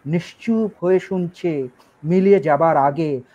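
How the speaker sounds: even, flowing poetry reading; poem recitation. Acted. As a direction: recite verse in long measured phrases. Reads a poem aloud.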